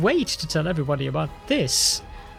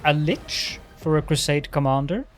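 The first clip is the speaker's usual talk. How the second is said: sarcastic teasing. Acted. Darren jokes to Caledon.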